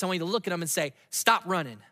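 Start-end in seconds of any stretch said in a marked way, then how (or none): 1.1-1.8 hall monitor voice. Shown as a demonstration. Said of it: "in your best hall monitor voice".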